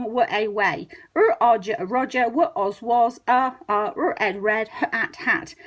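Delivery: letter by letter, then blend each word; steady sounds-then-word decoding; sounding out. Shown as a demonstration. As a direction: segment and blend like a phonics reader. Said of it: "pictures of speech sounds".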